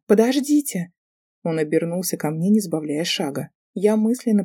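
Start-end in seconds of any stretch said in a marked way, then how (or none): 0.1-0.9 high, loud call after him; girl calling after the departing professor. Acted. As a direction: shout to make him stop. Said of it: "крикнула я".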